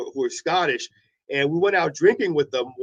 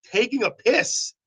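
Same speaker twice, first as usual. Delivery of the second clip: higher, slow puzzled question; baffled echo; 5 semitones higher, slower than usual. Retold or imitated. Drunk man misunderstanding his Scottish friends, baffled retold question. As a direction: repeat it back, mildly bewildered.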